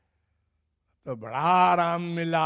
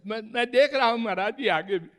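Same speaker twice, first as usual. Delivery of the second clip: quick, stammered driver's reply; rapid defensive answer, played out; hasty acted reassurance; 3 semitones higher, much faster than usual. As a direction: reassure the passenger in a rush. Acts driver reassuring worried passenger.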